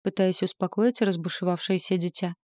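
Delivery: usual speaking voice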